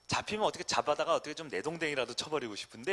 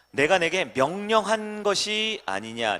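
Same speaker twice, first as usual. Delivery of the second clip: loud, slow proclaiming; slow, loud scripture reading; emphatic reading; 5 semitones higher, 10 dB louder, slower than usual. Acted. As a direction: declare it slowly and loud. Reads God's rebuke aloud.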